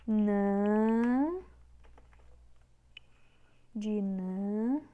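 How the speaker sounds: "dinâmico" in held pieces: di, nan, mi, co; syllable by syllable. Shown as a demonstration. Teacher separating the word, syllable by syllable. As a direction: break "dinâmico" apart with long pauses. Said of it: "então vamos separar".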